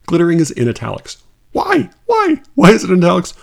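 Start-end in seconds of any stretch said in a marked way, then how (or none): 1.5-3.3 high, squeaking disbelief; exasperated high why; incredulous. Real, not acted. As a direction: ask it in baffled outrage. Incredulous at italics.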